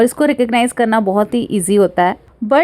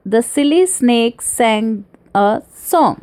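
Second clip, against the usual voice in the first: slow word by word, the s of silly, snake, sang, song clear; alliteration example; much slower than usual. Shown as a demonstration. Teacher demonstrating alliteration, slow, separated silly snake sang a song. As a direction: space out silly snake sang so each s stands out. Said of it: "repeating the same sound at the start".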